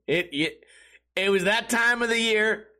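usual speaking voice

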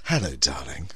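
breathy whispered hello. Acted. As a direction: whisper it close and intimate. Whispered greeting aside.

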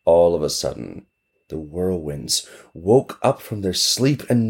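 plain reading voice

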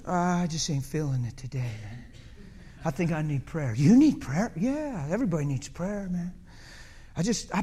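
a touch of low, soft weariness; mild mopey complaint to Peter; bummed-out Jesus. Pretend. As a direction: sigh it out like a tired friend. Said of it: "He's just a little heavy and bummed out".

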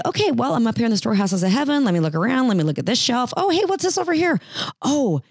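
bold prayer. Pretend. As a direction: act out pulling it down from heaven.

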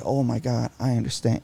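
soft, quiet understanding; a quiet, sympathetic reply. Shown as a demonstration. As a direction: say it gently, like you get her.

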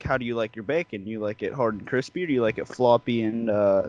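soft, sly, sleazy host offer; teasing the friend about his bacon, softly and slyly. Retold or imitated. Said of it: "I'm like".

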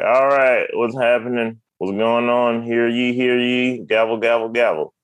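lightly voiced court official; a hint of a mock judge. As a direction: call the court to order, drawing out "hear ye". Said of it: "the judge is like".

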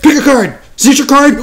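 high, bright magician banter; card magician patter. Pretend. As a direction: sell the card trick to the crowd. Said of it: "he's like".

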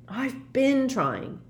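high, very slow, exasperated retort; cross. A narrator's reading. Harry to Hermione about Slughorn's memory, cross. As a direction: drag out BEEN in irritation. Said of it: "said Harry crossly".

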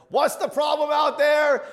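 high, loud yell from another room; old man shouting. Retold or imitated. Old man calling from another room, high slow holler. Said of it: "there's an old man who's in".

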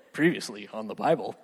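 deep mock recap announcer; TV guy voice. Shown as a demonstration. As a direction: boom it like a TV show recap. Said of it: "I sound like a T V guy".

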